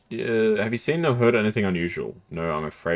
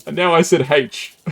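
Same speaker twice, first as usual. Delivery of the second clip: slow, loud, careful "H"; deliberate letter H; 8 semitones higher, 8 dB louder than usual. Shown as a demonstration. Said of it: "as in the normal say".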